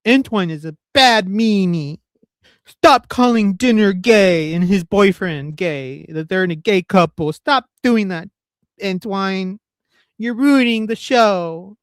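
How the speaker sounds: slow whiny crybaby voice; crying child. Retold or imitated. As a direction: whine like a sulking kid. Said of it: "I am putting a crybaby voice over it".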